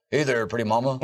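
a hint of a famous crooner, amused; a singer. Dub villain flirts instead of threatening, light impression of a singer. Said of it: "this guy sounds like a famous singer".

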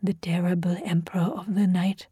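eerie unvoiced whisper; soft whisper. A narrator's reading. Tabinda naming the night terror, hushed whisper. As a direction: breathe it like a dread name. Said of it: "Tabinda whispered so softly".

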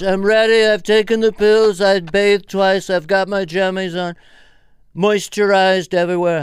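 loud, high mock Eastern European accent; Melania Trump. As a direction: announce it loudly in a put-on Slavic accent. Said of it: "sort of that Czechoslovakian accent".

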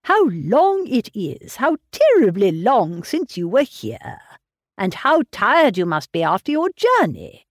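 lightly voiced fussy old father, fretting over his daughter; a hint of a doting, anxious old man pressing gruel. Mr Woodhouse fussing over daughter.

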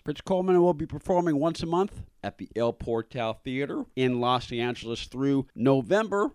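lively, measured promo read; polished announcer read with punched names; scripted radio intro. Acted. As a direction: introduce the guest like a radio host. Host reads scripted guest intro and promo.

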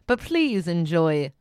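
loud, hammed-up despair in a mock Michael Caine voice; rising to a loud wail over the lost voice; mock Caine meltdown. Co-host wails loudly as mock Michael Caine loses his voice.

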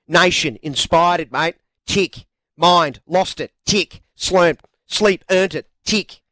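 a light Aussie twang, mate; Australian accent. Pretend. Reading Ned's tick list to cohost in Australian accent. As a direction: lay on a broad Australian accent. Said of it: "Can you do it in an Australian accent?".

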